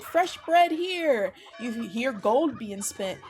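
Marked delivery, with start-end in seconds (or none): 0.0-1.3 loud, higher, drawn-out market cry; street vendor's yell. Acted. Bread seller yelling on the side, drawn-out vendor's cry. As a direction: call your wares out slowly across the street. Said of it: "You hear a man yelling".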